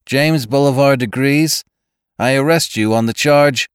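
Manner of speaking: a hint of a stern robot cop. Police robot arrests narrator.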